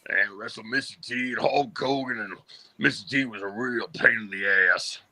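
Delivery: a light, barely changed wrestler voice; mildly voiced old wrestler reminiscing; lightly voiced old wrestler; Bob Orton impression. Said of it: "my Bob Orton".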